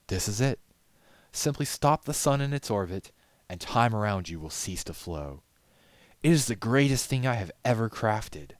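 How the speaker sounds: boasting of his best work; proud glassblower. A narrator's reading.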